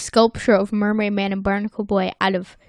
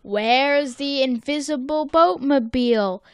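slow, raised-pitch cartoon questioning; Barnacle Boy searching; 4 semitones higher than usual. Retelling Barnacle Boy feeling around, slow puzzled call. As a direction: draw the question out, higher than usual.

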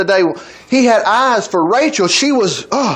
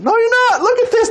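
excited rebuttal. Real, not acted. Contradicting the text excitedly.

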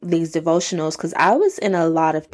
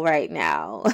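happy laugh; 4 semitones lower than usual. Real, not acted. Overjoyed about her faith.

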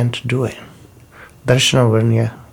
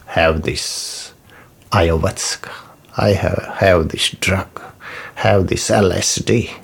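fake teacher's offer; 5 semitones lower than usual. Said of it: "the teacher will say".

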